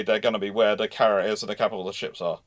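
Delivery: ordinary talk, nothing marked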